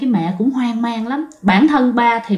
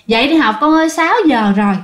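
mother's wake-up call, pitched up; imitated motherly call, only mildly raised; 4 semitones higher than usual. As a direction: call a sleeping child from the next room. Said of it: "mẹ kêu lớn để mà với qua".

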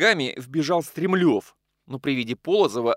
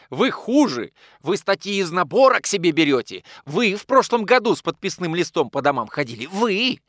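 higher, loud shrieking accusations; squealing accusation; 6 semitones higher, 5 dB louder than usual. Acted. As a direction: squeal it out, jumping with rage. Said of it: "взвизгнул Стремлёв".

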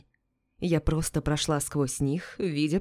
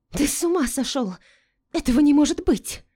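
high, loud shriek of disbelief; 9 semitones higher, 5 dB louder than usual. A narrator's reading. Melinda shrieking at her husband, high and loud. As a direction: shriek it in outrage. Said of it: "визжала Мелинда".

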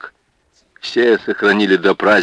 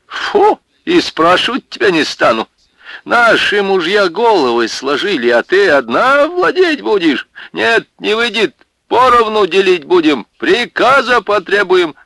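much higher, louder, brazen; brazen teasing; 12 semitones higher, 5 dB louder than usual. Acted. Woman taunting Марья over her husband, brazen. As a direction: taunt the wife boldly. Bold women's claim.

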